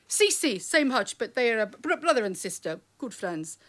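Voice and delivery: imitating an Italian father's reply; thick Italian accent. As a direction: put on an Italian accent, easing off towards the end. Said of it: "in his thick Italian accent".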